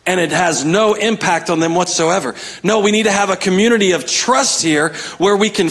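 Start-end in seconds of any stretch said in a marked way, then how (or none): none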